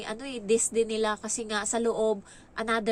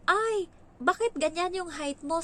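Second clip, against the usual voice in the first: higher, louder, surprised question; imitating the agent's disbelief; mock dismay; 7 semitones higher, 3 dB louder than usual. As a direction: act shocked at how short she is. Agency interviewer reacts to her height.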